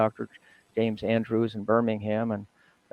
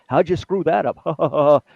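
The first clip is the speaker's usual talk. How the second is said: mock incredulous; 4 semitones higher, 6 dB louder, slower than usual. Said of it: "everybody said".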